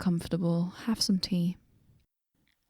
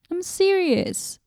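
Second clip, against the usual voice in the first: serious; 10 semitones higher, slower than usual. Acted. Insisting to the traveler.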